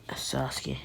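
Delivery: understated, earnest and subdued; Naruto. Acted. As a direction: speak with hushed gravity to a close friend. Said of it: "Naruto's like".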